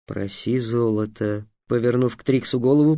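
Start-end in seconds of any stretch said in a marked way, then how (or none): 0.1-1.5 lower, soft hurried whisper. Acted. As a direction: hiss it aside, lower and quiet. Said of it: "прошептал Васап".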